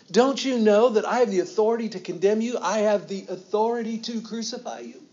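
high, loud, outraged ruler; indignant Pilate. Acted. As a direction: rage down at a silent prisoner from above. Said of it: "That's the kind of voice I'm pretty sure Pilate used".

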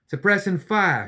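high, loud, slow shouted order; shouted command. Acted. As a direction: bark the order over gunfire. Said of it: "she shouted back".

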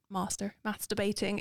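posh pronunciation slipping in; posh accent. Real, not acted. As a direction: slip into a posh accent on "masturbating". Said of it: "Why did you just go so posh?".

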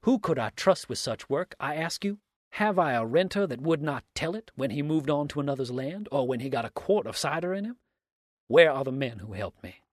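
loud, high, indignant protest; cried out. A narrator's reading. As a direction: challenge the accuser in exasperation. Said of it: "cried Dix".

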